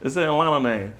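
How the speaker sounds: hammed-up Atlanta accent; overdone local Atlanta accent; bad Atlanta accent. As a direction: put on a wild Atlanta accent. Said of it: "that accent is wild".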